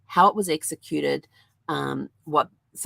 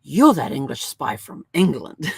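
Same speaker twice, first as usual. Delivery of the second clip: hammed-up sheriff; 5 dB louder than usual. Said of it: "he looks at him and he goes".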